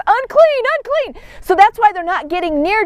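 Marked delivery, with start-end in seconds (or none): 0.1-0.6 high called Unclean; leper's first call; calling out loud. Retold or imitated. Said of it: "They're supposed to announce". 0.8-1.2 unclean dropping away softly; leper's softer second call; fading repeat. Retold or imitated. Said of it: "They're supposed to announce".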